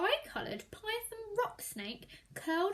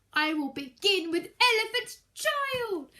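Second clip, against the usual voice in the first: crocodile gloating; 3 semitones higher, 5 dB louder than usual. Acted. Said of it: "he said".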